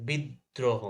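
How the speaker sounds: বিদ্রোহ said bid-dro-ho, d held; doubled দ. Shown as a demonstration. Teacher shows students doubling, বিদ্রোহ as bid-dro-ho. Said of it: "double হয়ে গেছে".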